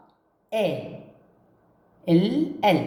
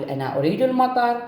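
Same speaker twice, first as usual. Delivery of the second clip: put-on child's line; 5 semitones higher than usual. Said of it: "هذا الولد يقول".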